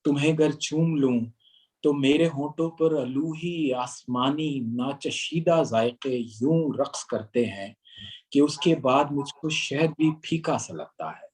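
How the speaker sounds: slow, measured romantic poem; stately nazm recitation. Acted.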